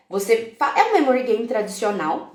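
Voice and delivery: ordinary talk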